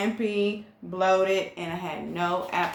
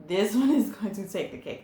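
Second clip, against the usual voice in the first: quicker and laughing through the words; amused, rushed repeat; faster than usual. Real, not acted. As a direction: say it again with a laugh breaking in. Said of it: "laughs as she repeats it".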